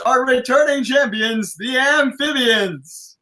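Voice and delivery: shouted, stretched champion intro; slow, shouted ring announcement; announcer shout. Acted. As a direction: call out the champs to the crowd.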